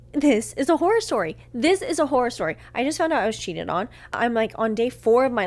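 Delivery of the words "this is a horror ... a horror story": retold scream-crying. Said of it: "I'm scream crying".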